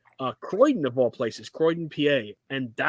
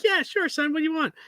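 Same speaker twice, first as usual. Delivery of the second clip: much higher comic imitation of dad; dad's voice; 12 semitones higher than usual. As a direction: play dad, gruff yet goofy. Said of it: "that's what he sounds like".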